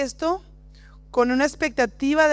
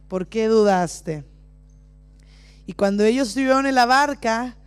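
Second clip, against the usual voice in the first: scripture reading; 3 semitones lower than usual. Acted. Reads Bible passage dramatically.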